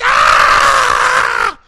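sudden full-voiced yell; loud shout. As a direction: cry out at the top of the lungs. Actor in character, big shout.

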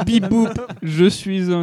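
high beeping Dalek voice; robot voice. Pretend. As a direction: beep like a toy robot. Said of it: "un Dalek".

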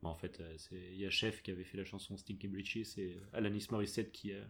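mumbling quietly. Real, not acted. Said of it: "t'avais un petit peu honte et tu chuchotais".

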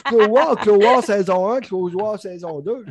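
Saguenay accent, high and loud, swearing in mock frustration; hammed-up yelling of the title as if it were obvious; mock exasperated shout.

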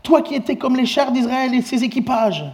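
high, loud anguished cry. Acted. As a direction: cry out after the departing master. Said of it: "Élisée cria, s'écria".

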